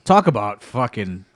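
slow, dragged-out exasperation; slow weary complaint about a boring event; drawn-out disgust. Real, not acted. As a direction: stretch it out, fed up and bored. Complaining about the dull show.

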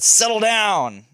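firm dad command. Retold or imitated. Dad telling his stepson to calm down, slow and firm. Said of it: "but I said".

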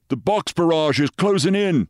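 high, urgent sergeant's report; British sergeant. Acted. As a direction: report to your officer, high-pitched and urgent. Sergeant warns his captain of shelling.

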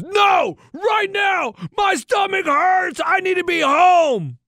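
high, drawn-out mock kid wail; child's tantrum. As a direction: imitate a five-year-old demanding to leave. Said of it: "And he goes".

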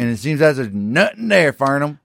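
high-pitched mock complaint; Mister Garrett. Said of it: "Then you got Mister Garrett comes back home".

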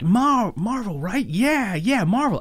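high, lightly voiced puzzled colleague; mock veteran. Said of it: "he's like".

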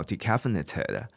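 decaffeinated with its final "ted" fully sounded; ending pronounced. Shown as a demonstration. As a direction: slowly give decaffeinated its whole "-ted" ending. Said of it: "尾巴的这个ted要把它念出来".

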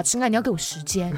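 lightly voiced sweet-talk; sweet-talking jerk. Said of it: "满口bullshit那种渣男".

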